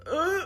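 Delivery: high-pitched groan of dismay; exasperated groan. Retold or imitated. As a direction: let out a high, retold "ugh". Retelling exasperated reaction to impound threat.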